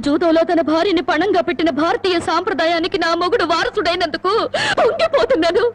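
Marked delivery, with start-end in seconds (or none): 4.8-5.6 tearful sarcasm. Acted. Wife bitterly mocks gambling husband.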